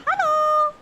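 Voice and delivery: high, loud sing-song hello; calling out. Real, not acted. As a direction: call it out across the room. Calling out a greeting.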